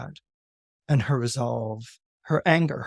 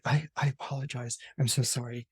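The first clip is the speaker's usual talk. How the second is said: meek apology; 4 semitones lower, 10 dB quieter, faster than usual. Acted. Queen apologises to goddess.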